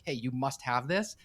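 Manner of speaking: slow, pushy insistence; aggressive push. Shown as a demonstration. Teacher shows an aggressive way to share Torah, slow and pushy. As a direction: press it on them slowly. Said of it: "There's aggression".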